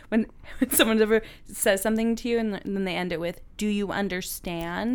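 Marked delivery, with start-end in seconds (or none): 3.6-5.0 slow, drawn-out mock condescension; condescending. Quoting someone ending with it, condescending. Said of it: "How condescending is that?".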